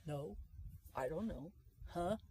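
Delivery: low, soft, listless replies; mumbled lack of interest; unenthusiastic. Acted. Coach imitates someone nobody enjoys talking to, unenthusiastic. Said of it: "not the person you really like to talk to".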